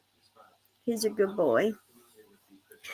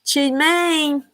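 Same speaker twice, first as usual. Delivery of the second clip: laughing; 5 semitones higher than usual. Real, not acted. Laughing at viewer comment.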